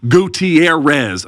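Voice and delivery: slow, rolled Spanish Gutierrez; Spanish accent. Retold or imitated. Husband saying wife's name in Spanish accent to bartender. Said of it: "say her last name with her accent".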